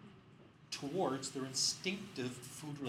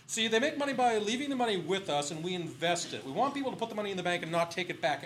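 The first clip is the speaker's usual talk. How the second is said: loud, higher, condescending; mock lecturing; 4 semitones higher, 7 dB louder than usual. Bank guy keeps lecturing the scientists, louder. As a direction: lecture them, loudly.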